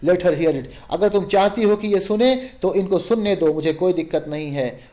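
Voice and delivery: husband losing his temper with his wife, shouting. Acted. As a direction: blow up and yell at her. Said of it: "चिल्ला के कहता है".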